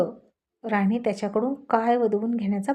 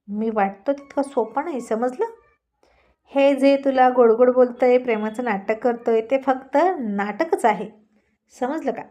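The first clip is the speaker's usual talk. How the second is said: mild threatening; 4 dB louder than usual. Acted. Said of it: "धमकीवजा बोलण्यानं".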